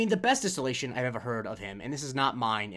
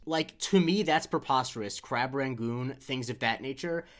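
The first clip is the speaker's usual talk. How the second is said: Stephen A. voice; slower than usual. Retold or imitated. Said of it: "read this tweet in his voice".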